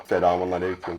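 deep effected greeting; deepened voice changer. Shown as a demonstration. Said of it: "Bu kalınlaştırdı güzel". (kalın efektli ses)

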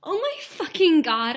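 high, loud, slow mock scream. A narrator's reading. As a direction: shriek it like a fangirl. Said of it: "I screamed".

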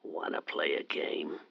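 menacing whisper. Acted. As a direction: tease her like a masked killer. Ghostface caller taunting host.

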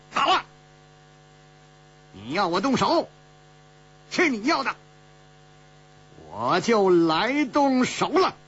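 laughing. Acted. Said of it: "第三个大笑说".

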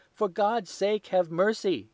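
high, loud desperate shriek; shrieking plea. A narrator's reading. Thief on his knees begging Holmes, high shriek. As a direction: beg for your life at the top of your voice. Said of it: "he shrieked".

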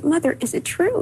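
high, rising plea for the truth; disbelieving question. Retold or imitated. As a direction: ask as if you cannot believe it, voiced and high. Asking mother about brother's death.

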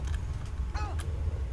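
high breathless laugh; shaky relieved giggle. Real, not acted. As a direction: laugh out the fright. Relief after narrow escape.

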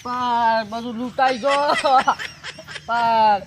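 distressed wail. Acted. Robbed man wails afterwards.

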